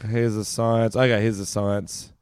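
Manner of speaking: burping the words. Real, not acted. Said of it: "I'm gonna burp the whole time".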